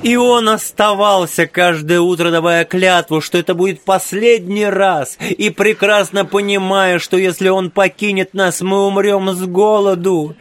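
crying out. A narrator's reading. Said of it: "продолжала выкрикивать".

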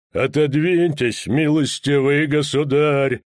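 slow, menacing warning; ominous, hollow voice. A narrator's reading. Executioner warning the official away from his axe, ominous. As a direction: intone it slowly, heavy with threat. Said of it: "сказал он зловеще глухим голосом".

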